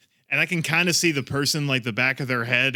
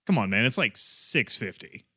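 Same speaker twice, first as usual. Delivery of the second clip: weary disbelief; 4 semitones lower than usual. Retold or imitated. Retold weary reaction to the man.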